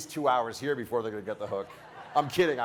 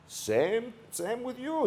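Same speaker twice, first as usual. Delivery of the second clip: put-on Slavic accent; 10 semitones higher, 3 dB quieter, much slower than usual. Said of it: "He's got kind of a Slavic accent".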